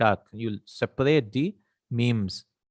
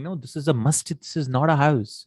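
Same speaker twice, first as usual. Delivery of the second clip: higher-pitched mild contradiction; disagreeing; 4 semitones higher than usual. Acted. Person insisting to another it's a mosque, mildly contradicting. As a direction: object as if correcting someone. Acting out someone who disagrees.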